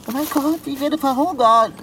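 high, dramatic dread; panicked lament. Acted. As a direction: wail as if doomed. Stuck cat panics about starving.

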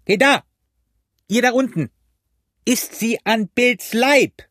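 high, insistent hailing cry; shouting. A narrator's reading. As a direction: yell to get the attention of those below. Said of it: "schrie der Blinde wieder".

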